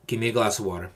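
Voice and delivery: firm, even command; plain calm order. Shown as a demonstration. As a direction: state it simply as an order.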